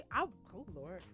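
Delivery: ordinary talk, nothing marked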